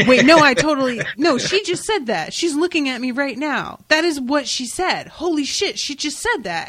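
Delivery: high-pitched mock disbelief; high, emphatic imitation of someone flustered. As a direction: act out a dawning, scandalized realization. Voices his flustered inner reaction.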